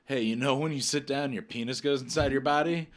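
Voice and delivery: a bit brighter, eager question; excited question. Retold or imitated. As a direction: blurt it out eagerly. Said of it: "I look at Tyler and go".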